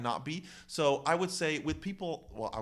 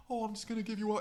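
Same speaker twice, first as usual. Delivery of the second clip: mock sweet; 8 semitones higher, much faster than usual. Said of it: "like, only sweet way".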